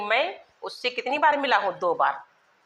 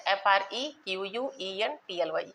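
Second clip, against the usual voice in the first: spelling it out; 4 dB quieter than usual. Shown as a demonstration. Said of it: "फ्रीक्वेंटली है".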